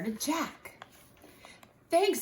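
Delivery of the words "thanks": higher, louder thank-you; grateful thanks. Acted. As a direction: thank him warmly. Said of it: "said Jack".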